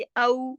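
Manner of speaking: औ gliding from a into u; waw leen sound. Shown as a demonstration. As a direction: model औ like the ending of Lucknow. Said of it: "इस तरह वावे लीन की आवाज". (औ, वावे लीन की आवाज में)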